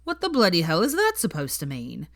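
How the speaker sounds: lightly voiced affronted boy; mild outrage in Ron's voice. Ron's indignant reply voiced.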